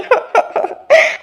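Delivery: high, breathy burst of sobs; hammed-up crying; acted sobbing. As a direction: sob mid-plea to a father. Pleading tearfully with her father.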